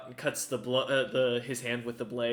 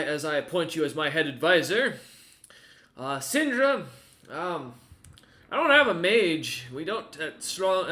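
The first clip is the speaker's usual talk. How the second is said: lord proclaiming; 5 dB louder than usual. Acted. Lord appoints head advisor.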